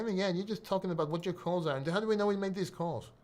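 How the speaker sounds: muted put-on heckler voice; mocked idiot commenter. Idiot in the comments questions his calls, mockingly imitated. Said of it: "that's how you talk like".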